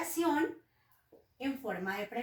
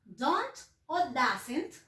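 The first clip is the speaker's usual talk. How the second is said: slow demo; much slower than usual. Shown as a demonstration. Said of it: "vamos a colocar el auxiliar negativo".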